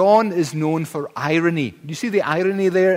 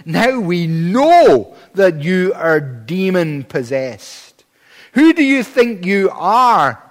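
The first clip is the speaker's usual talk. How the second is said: raised, accusing preacher's quote; retold angry shout; 3 semitones higher, 6 dB louder, slower than usual. Preacher quoting the Jews accusing Jesus, mock-outraged shout. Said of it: "they shouted, they screamed, they shrieked".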